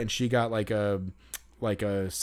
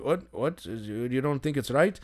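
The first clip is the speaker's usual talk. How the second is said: questioning Irish lilt; thick Irish accent. Retold or imitated. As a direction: imitate a puzzled Irish attendant. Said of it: "this thick Irish accent".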